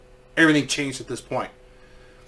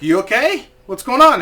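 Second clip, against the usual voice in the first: alarmed concern; 7 semitones higher, 5 dB louder than usual. Retold or imitated. Guide alarmed at pale child.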